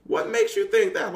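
indignant comeback, retold; retold snapping. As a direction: snap back as if fed up. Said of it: "something snapped in me".

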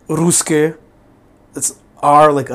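slow demo of the first Hebrew R in "Ruske". Shown as a demonstration. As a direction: show the first of three Hebrew R sounds, "R like R". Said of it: "three different R's".

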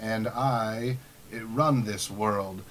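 slow, grand all-knowing game master, hammed up; power-drunk DM. DM lost in his power, mock-grand and slow. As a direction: lord it over the table, slowly. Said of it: "and just be like".

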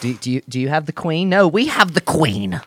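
mock British accent. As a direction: declare it proudly in a bad British accent.

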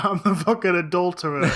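light mock Boston accent; touch of Boston townie; Southie accent. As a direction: own up in comic Southie. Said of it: "Yeah, that's my accent".

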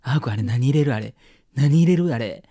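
high, loud impression of nosy aunties; boisterous Kansai aunties. Aunties spying on a friend at the drink bar, high mock outcry. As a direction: imitate excitable aunties, pitch climbing as they go. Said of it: "爆発しがちなおばちゃん集団".

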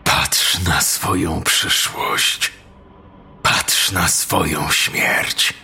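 slow, strong inhuman demon voice; a demon intoning slowly from the dark. Acted. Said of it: "mocnym, nieludzkim głosem".

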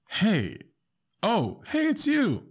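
sudden starstruck recognition; delighted recognition. Pretend. Teller realizing the customer is a celebrity, rising excited squeal. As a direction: voice climbing very high in surprise. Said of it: "I'll be like".

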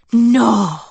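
loud, astonished outburst; surprised. A narrator's reading. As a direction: gasp it out in shock. Emily gasps in surprise.

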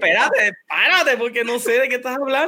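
mock exasperated "hold on"; exasperated interruption. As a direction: cut in, urgently confused. Acts out bewildered interruption of ramble.

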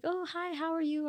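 high, lightly voiced old lady greeting; old lady neighbor. Old lady greets a passerby petting her dog, imitated high greeting. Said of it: "this old lady".

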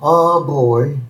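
lightly voiced Moe, self-pitying; a hint of Moe feeling sorry for himself. Rejected Moe whining to Marge, mildly voiced. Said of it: "And Moe's like".

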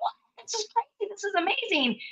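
mock amazement. Mocking first-timers amazed.

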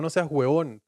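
"huevón" pronounced fully, as by someone new to insults; unpractised insulter's huevón. Acted. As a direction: say "huevón" carefully with both syllables. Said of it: "una persona que nunca ha insultado en su vida". ("huevón" completo, de quien nunca ha insultado)

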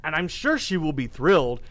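butter her up sweetly; sweet-talking flattery. Retold or imitated. Quoting self showing friend.

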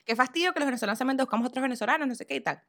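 fast, dismissive rant as her younger self; hurried mocking complaint, lightly imitated; mock teenage scorn. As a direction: rattle it off like a snobby eighteen-year-old. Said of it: "Tenía dieciocho años".

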